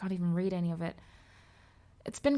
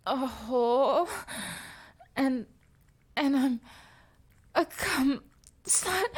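voice breaking; 3 semitones higher, slower than usual. Acted. Forced words breaking up.

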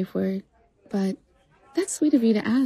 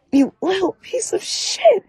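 angry outburst; 8 semitones higher, 3 dB louder than usual. Acted. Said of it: "you want me to be angry and resentful".

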